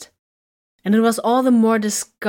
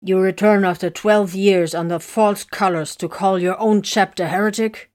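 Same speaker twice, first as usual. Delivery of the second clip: louder, indignant accusation; raised voice; 5 dB louder than usual. Acted. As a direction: raise the voice in outrage. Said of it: "Bertram of Highgard raised his voice".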